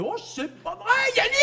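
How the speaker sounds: high squeal of recognition; excited girl. Acted. Girl runs into old schoolmate Yannick, excited squeal. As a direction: gush in a high, delighted girl's voice. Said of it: "la fille arrive".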